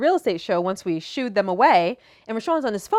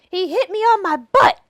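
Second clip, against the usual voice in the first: put-on higher, louder child's complaint; little girl complaining; 11 semitones higher, 4 dB louder than usual. Voicing the daughter in story.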